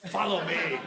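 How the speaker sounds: playful, fuller-voiced mock summons; hammed-up copy of an intense movie line; imitating Jesus. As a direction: do it bigger, playing to the laugh. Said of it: "imitating that and doing it to one another".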